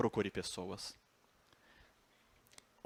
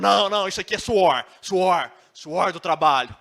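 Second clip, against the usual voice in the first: louder, stubborn denial; hammed-up proud denial; mock insistent denial; 6 semitones higher, 13 dB louder than usual. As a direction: swear the tears are only sweat. Paulo denies crying.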